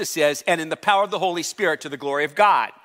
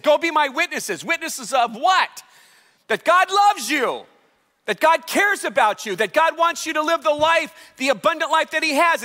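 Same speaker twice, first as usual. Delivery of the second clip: quoting Jesus, raised; 8 semitones higher than usual. Retold or imitated. Pastor voicing Jesus' call to the church, high and lifted. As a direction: pitch rises high for the quoted commission. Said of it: "he said back in Acts".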